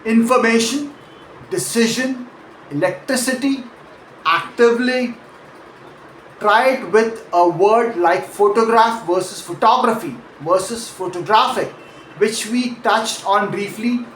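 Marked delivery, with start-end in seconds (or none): 0.0-5.1 inforMAtion, deCIsion, elecTRIcity, ACtively; Information, decision, electricity, actively as careful stress demos; stress before the ending. Shown as a demonstration. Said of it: "stress on the syllable right before that ending". 8.3-11.7 PHOtograph, phoTOGraphy, photoGRAPHic; shifting stress. Shown as a demonstration. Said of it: "stress shifts".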